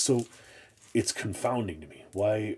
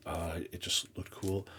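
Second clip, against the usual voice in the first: whisper; 5 dB quieter than usual. Real, not acted. Quiet aside about buying cover.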